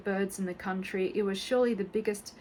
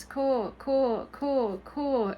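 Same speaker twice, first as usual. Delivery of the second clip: peacock cawing; 4 semitones higher, much slower than usual. A narrator's reading. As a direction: caw like a big bird up a tree. Peacock cries in tree.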